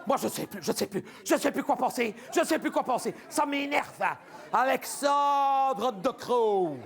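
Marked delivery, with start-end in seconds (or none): 4.5-6.8 very slow, drawn-out laughing shout of the name; comic despair at De Croo; exasperated name. Acted. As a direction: groan the name out in disbelief.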